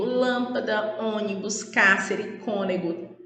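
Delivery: "lâmpada, ônibus, cárcere, cônego" stressed on each first syllable; teacher's examples "lâmpada, ônibus, cárcere, cônego", third-last syllable stressed; stress on antepenultimate syllable. Shown as a demonstration. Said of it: "ela é antepenúltima sílaba".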